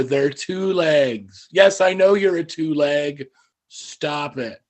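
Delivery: lightly voiced weary goat; slow, drawn-out chiding from a goat; talking goat. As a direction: gently scold the rooster, stretching the words. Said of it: "the other goat looks at the rooster and says".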